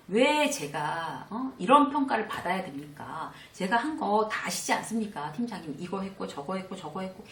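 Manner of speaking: heated, indignant complaint to the team leader; mock-angry employee confronting his boss; emotional outburst. Shown as a demonstration. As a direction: protest the unfair grade with rising irritation. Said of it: "감정적으로 팍 얘기하면".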